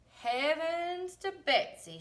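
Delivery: high, loud, slow exclamation; waitress exclaiming at the cats; exclaimed. A narrator's reading. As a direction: gasp it out in amazement. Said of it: "she exclaimed".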